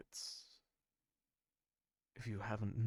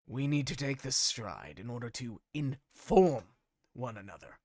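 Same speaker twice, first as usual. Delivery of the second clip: a hint of a stern council bird-folk; lightly voiced Aarakocra; 4 dB louder than usual. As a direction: Aarakocra scolding Apoxis for acting alone, lightly stern. Council member Aarakocra rebukes Apoxis.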